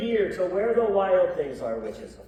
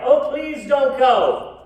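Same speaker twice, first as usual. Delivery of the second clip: slow, louder begging; mock pleading cry; 5 semitones higher, 6 dB louder, slower than usual. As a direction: plead like the wild things. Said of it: "the wild things cried".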